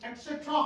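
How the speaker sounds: एटसेटरा said carefully as "et-set-ra"; correct pronunciation. Shown as a demonstration. Teacher shows children how to say एटसेटरा. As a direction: model एटसेटरा clearly for the kids. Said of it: "बल्कि बच्चों को सिखाना है आपने".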